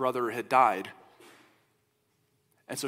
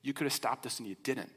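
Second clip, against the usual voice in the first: softer, quick, hurt rebuke; grieving sister softly reproaching Jesus, pained; 7 dB quieter, faster than usual. Retold or imitated. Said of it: "you can hear the exasperation, you can hear the pain".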